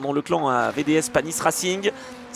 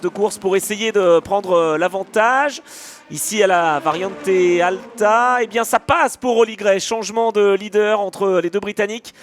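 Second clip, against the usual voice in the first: excited motorsport commentator; 4 semitones higher, 4 dB louder than usual. Real, not acted. Live overtake for the lead.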